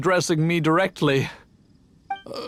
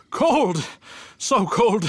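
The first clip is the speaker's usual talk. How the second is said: startled cry; 5 semitones higher, much slower than usual. Acted. Brewer handling freezing extract.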